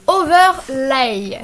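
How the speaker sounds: slow English word in a French accent. Real, not acted. Tutorial maker reading a button name aloud, clumsy French-accented English. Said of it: "Désolé pour mon accent anglais très pourraf".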